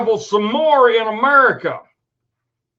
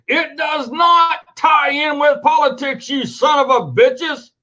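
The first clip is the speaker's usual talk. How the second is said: raised, heated shout at the posters; real anger, voice raised; angry shout; 4 semitones higher than usual. Real, not acted. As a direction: yell it at the screen.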